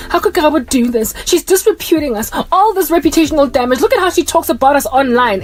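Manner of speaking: put-on victim's lament; playing the victim. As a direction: imitate an aggrieved relative protesting. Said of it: "they're gonna try and play victim".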